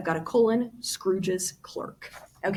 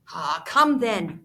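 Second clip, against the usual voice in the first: gaily; slower than usual. Acted. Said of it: "returned the nephew gaily".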